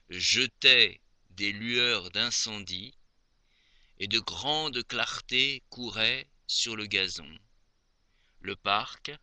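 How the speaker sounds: measured, expressive poetry reading; poem recitation. Acted. Reciting Maupassant's poem to dear Aimée, poem recitation. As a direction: recite the verse in spaced phrases.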